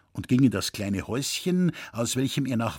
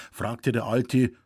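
usual speaking voice

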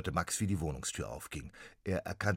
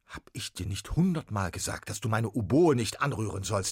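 stern father; 4 semitones higher, 7 dB louder than usual. Acted. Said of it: "wurde sein Gesicht finster".

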